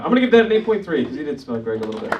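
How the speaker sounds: slight Philly accent; a touch of Philadelphia in the vowels. Real, not acted. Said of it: "my Philly accent is coming out".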